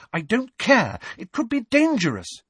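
high, urgent objection; cross protest. A narrator's reading. Hermione warns Fred of danger, cross. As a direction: argue back in a high pitch.

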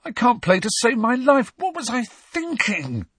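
high, croaky, despairing voice; croaking Ron. A narrator's reading. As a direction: moan it in despair. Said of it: "croaked Ron".

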